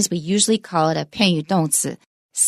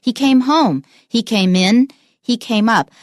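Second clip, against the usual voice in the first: "home", "in", "up" each clearly stressed; stress on last word; 3 semitones higher, 4 dB louder than usual. Shown as a demonstration. Teacher drilling particles after verbs, stressed "home", "in", "up". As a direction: model each short sentence, landing firmly on "home", "in", "up". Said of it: "is pretty much always stressed".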